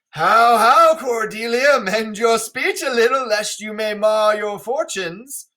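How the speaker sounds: an angry father pressing his daughter to fix her words; lightly voiced king, stern and pressing; Lear's warning rebuke. Lear scolds Cordelia.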